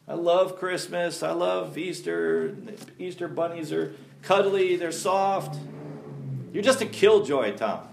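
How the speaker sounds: put-on drawn-out, childlike pleading; mock pouting. Churchgoer defending beloved holidays to the preacher, mock pouty whine. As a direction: lightly whine with a pretend pout. Voicing congregants' objections.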